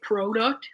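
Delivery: product with a long O, PROH-duct; imitated Canadian pronunciation. Quoting friend's teasing, product with a Canadian long O. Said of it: "making fun of my Canadian accent".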